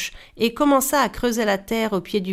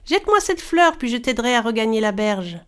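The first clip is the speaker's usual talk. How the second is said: sweetest voice. Acted. Brother coaxing brother on the log, sweetly. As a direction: sweet-talk him, hiding the greed. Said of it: "prit sa voix la plus douce".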